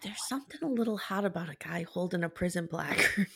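hushed, secretive whisper. Telling a listener something meant only for them; whispering. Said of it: "I have to whisper this".

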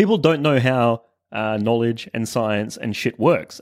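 normal talking voice

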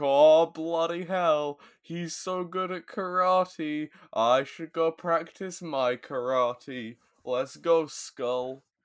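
high-pitched, impressed, bowled-over exclamation. Retelling Bulk's reaction to Tommy: imitating Bulk. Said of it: "Bulk is like".

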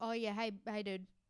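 laid-back, casual, matey, friendly tone. Imitating contestants greeting each other: imitating a matey greeting. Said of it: "matey. Like".

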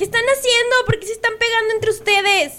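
shrill, scolding shout, pitched way up. Retelling how someone starts shouting at people hitting each other: retelling someone yelling at them. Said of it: "Y les empieza a gritar".

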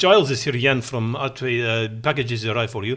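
put-on Polish-accented English. Retelling a phone call from Jan, the office janitor, in Jan's Polish accent. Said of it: "It's my Polish accent".

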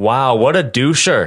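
loud, high-pitched hollered yell. A player casts an illusion of their own voice across a courtyard: yelling. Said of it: "I want to yell".

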